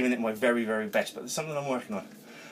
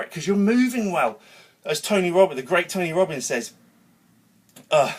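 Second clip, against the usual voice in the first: ranting with real energy; fired-up rant; 4 semitones higher than usual. Real, not acted. Coach ranting to viewers about moving, fired up. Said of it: "I'm kinda ranting and I'm well up for it".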